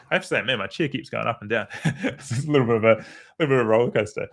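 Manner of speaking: quick, amused aside, laughing through it. Real, not acted. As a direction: chuckle at the wobbly chair. Chair keeps moving mid-talk.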